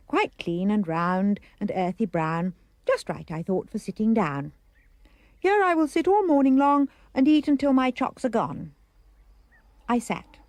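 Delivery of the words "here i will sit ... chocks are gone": louder, higher, eager quote; eager resolve. A narrator's reading. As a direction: announce the plan with relish. Child's gleeful resolve voiced in story.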